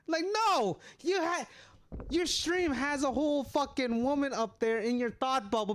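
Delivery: excited protest. Real, not acted. Protesting friend's dating worry.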